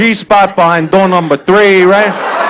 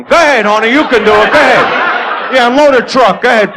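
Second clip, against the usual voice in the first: egging her on, louder, with a laugh; mock cheering girlfriend; 3 semitones higher, 4 dB louder than usual. Friend cheering the girl in the bathroom, mock encouraging.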